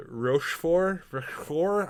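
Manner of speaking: Rochefort said slowly with a shaky French accent; foreign accent in French. Real, not acted. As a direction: try Rochefort in halting French. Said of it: "I cannot do his last name even close to properly".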